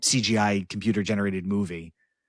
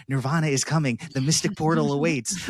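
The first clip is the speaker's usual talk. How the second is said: high, dreamy little alien; lightly voiced toy alien; 6 semitones higher than usual. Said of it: "the little alien goes".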